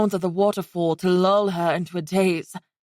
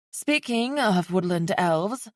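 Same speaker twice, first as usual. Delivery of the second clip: nervous; slower than usual. Acted. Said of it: "cleared her throat nervously".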